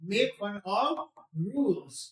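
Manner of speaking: each word stretched out for learners; slow dictation pace, word by word. Shown as a demonstration. Teacher says the phrase very slowly for students to copy. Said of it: "इतना slow बोल रहा हूँ मैं".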